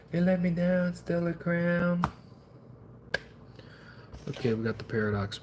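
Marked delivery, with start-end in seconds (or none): 0.1-2.0 higher, slowing right down on crown; a half-joking cry of betrayal at the set; mock wail. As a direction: pitch it up into a hammed-up wail. Mock heartbreak at a bad pull.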